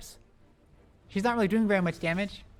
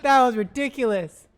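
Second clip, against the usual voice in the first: louder, higher, drawn-out disbelief; real post-fight awe; amazed; 4 semitones higher, 7 dB louder than usual. Real, not acted. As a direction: marvel at the play. Reacting to the fight.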